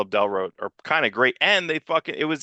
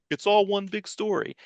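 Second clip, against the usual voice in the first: mock Claremont; 7 semitones higher, 3 dB quieter than usual. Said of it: "He's like".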